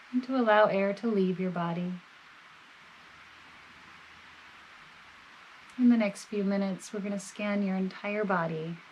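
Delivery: calm, measured body-scan guidance with long pauses; guided meditation. Real, not acted. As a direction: gently guide the listener, leaving space between phrases.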